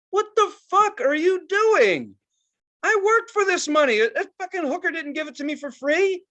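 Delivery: furious fan yelling at the stage, hammed up; mock outrage. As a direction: bellow like a ripped-off ticket buyer. Ranting at the band's stalling.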